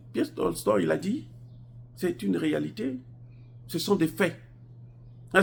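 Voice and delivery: high-pitched, insistent indignation; impassioned argument. Real, not acted. Vlogger insisting soldiers are decimated on the ground, impassioned. Heated argument about war losses.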